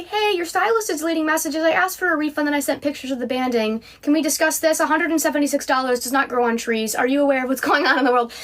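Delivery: polite customer on the phone, a touch high; lightly voiced calm request; retold calm phone request. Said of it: "I said very calmly".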